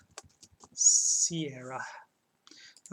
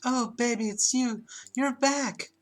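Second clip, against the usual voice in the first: sexy voice; 6 semitones higher than usual. Acted. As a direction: coo it at your lover, high and eager. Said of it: "Fawn's sexy voice oozes through the door".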